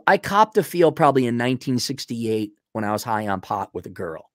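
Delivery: a hint of a sheepish old man confessing; low mumbled old-timer confession; old guy voice. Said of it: "This guy's old".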